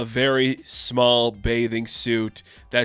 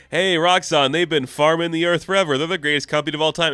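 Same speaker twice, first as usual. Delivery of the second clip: lightly parodied advertising pitch, a bit higher; mock sponsored ad; 4 semitones higher, faster than usual. Sponsored ad praising Roxxon, mock salesman's enthusiasm. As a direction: play an eager corporate plug. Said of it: "a sponsored ad halfway through the book".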